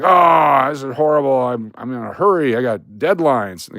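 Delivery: imitating an impatient customer's gripe; exasperated complaint. Man in a bank line complaining he's in a hurry, exasperated.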